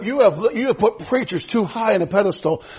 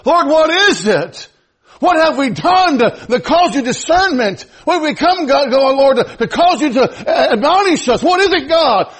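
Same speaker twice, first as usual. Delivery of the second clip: pleading prayer; 3 semitones higher than usual. Acted. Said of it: "we would say".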